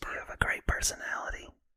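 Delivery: soft, breathy whisper kept up in the mouth. Asked to redo the line as a whisper: whispering. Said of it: "I want to hear a whisper".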